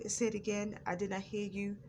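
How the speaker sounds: courteous demonstration of asking for a repeat; nice and polite. Shown as a demonstration. Showing how to answer someone who stutters, nice and polite. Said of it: "be nice and polite and say".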